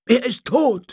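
high, loud wail; crying out in dismay. A narrator's reading. Followers at the deathbed cry out in dismay. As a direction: cry out the terrible news, pitched right up. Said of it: "schrie alles durcheinander".

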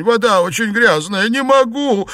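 high, loud imploring cry; begging. Acted. Xuepan begs Liu Xianglian not to drink the filth. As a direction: beg for mercy. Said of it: "взмолился Сюэпань".

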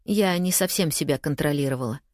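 plain reading voice

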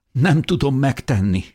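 high, tearful distress; trembling sob. A narrator's reading. Beloved cannot cross the fence, sobbing. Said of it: "zokogta Mikál reszketve".

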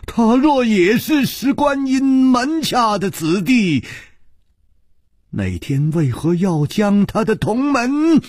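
high stammer building to a shout; stern, shocked cry. A narrator's reading. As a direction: falter on the first words, then burst out in high protest. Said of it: "厉声说". (厉声惊问，声调高亢)

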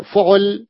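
فعل as fu'ul, two u vowels; u on both letters. Shown as a demonstration. Teacher explains the third pattern, fu'ul. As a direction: say فعل with u after f and 'ayn. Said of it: "بضم الفاء وضم العين".

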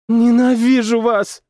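slow, high, tense exhale of hatred; breathed out. Acted. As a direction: breathe the words out hatefully. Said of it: "выдохнула она".

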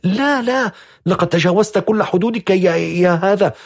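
high, mild shout. A narrator's reading. Young woman shouting at the stranger at her door, high. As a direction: snap at him, voice climbing. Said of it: "وقالت صارخة".

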